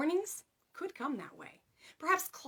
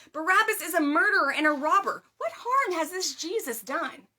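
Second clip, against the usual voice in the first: shouted; 7 semitones higher, 9 dB louder than usual. A narrator's reading. Pilate shouting at the mob to defend Jesus, loud. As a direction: shout over the crowd in protest. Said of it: "Pilate shouted".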